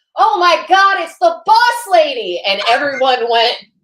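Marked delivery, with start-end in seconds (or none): 0.2-2.4 put-on shrill little girl's yell at top of lungs. Retelling what a little girl yelled at a signing, retold yell at top of lungs. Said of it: "she yells at the top of her lungs".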